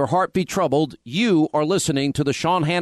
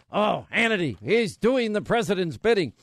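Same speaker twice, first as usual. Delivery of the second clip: mocking critics; 3 semitones higher than usual. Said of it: "Not like people".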